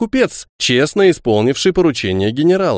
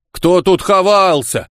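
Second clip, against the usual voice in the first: indignant; 6 semitones higher, slower than usual. Acted. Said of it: "возмутился Егор".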